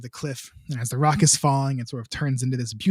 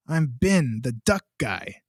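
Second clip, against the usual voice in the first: raspy Ben voice; slower than usual. Retold or imitated. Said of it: "raspy voice on the other side".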